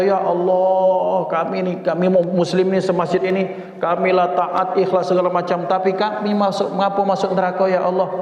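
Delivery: a worshipper complaining, half-acted; lightly voiced protesting worshipper; pleading protest. Acted protest prayer to God.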